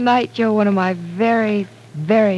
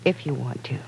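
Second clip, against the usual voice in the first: whisper; 5 semitones lower, 5 dB quieter than usual. Acted. Hesitant before confession.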